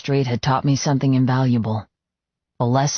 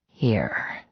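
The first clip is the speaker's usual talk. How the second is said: whispering; 4 semitones lower, 4 dB quieter than usual. Acted. Lover's whispered reply.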